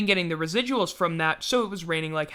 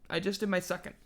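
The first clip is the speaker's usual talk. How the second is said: talking through a yawn; 7 dB quieter, faster than usual. Real, not acted. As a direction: say it mid-yawn. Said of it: "That was my second".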